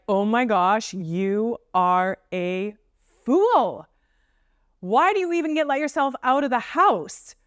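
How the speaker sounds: high, exaggerated berating; hammed-up harsh inner critic; mock scolding. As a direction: scold a friend with over-the-top harshness. Acts out a harsh friend's scolding.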